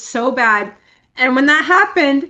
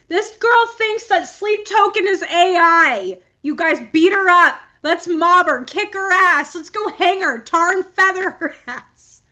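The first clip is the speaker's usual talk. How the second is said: high, hammed-up rabble-rousing; rally the crowd in mock fury; mock mob outrage; 5 semitones higher than usual. Angry fan inciting others against the ignorant girl, mock outrage.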